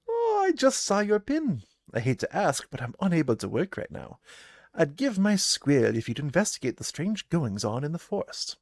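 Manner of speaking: a gruff huntress greeting travellers; gruff trapper woman. Acted. Trapper Hannah greets the party, gruff and loud.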